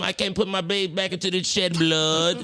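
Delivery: slow imitation of an Indian accent. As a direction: do the Indian shopkeeper accent from the movie. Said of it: "he was Indian".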